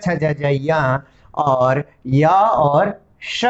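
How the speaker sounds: each palatal letter said slowly and distinctly, one by one; slow letter demo. Shown as a demonstration. Teacher reciting the palatal row slowly for students. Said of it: "च वर्ग का मतलब च".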